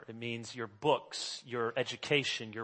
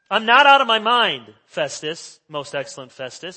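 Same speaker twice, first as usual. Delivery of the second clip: Paul protesting; 3 semitones higher, 14 dB louder than usual. Retold or imitated. Paul answering Festus.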